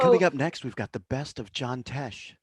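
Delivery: mock a smooth AM radio link. Co-host joining the joke announces what's next, AM radio voice. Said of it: "you just went into A M radio voice".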